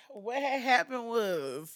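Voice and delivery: slow, breathless after laughing; catching breath after laughing; gasping for air. Real, not acted. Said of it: "You, you out of breath?".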